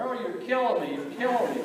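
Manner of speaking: high, hammed-up cry of pain; mock howl of pain at mom's swats; mock wailing brother. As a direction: ham up a kid howling under a spanking. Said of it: "Rod was screaming bloody murder".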